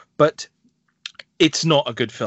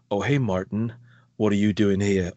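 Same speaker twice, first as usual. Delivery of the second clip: weighty American guy; 4 semitones lower than usual. Retold or imitated. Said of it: "talks like this".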